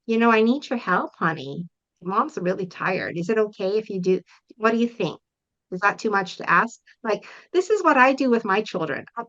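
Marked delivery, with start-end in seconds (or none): 0.0-6.8 put-on a tired mom gently asking her child for help; gentle asking. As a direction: ask for help kindly and honestly. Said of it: "you say to your child".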